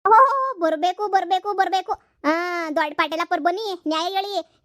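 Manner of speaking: mother loudly welcomes the headman, overdone; loud sarcastic welcome. Acted. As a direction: hail the headman with mock ceremony. Mother greets the headman theatrically.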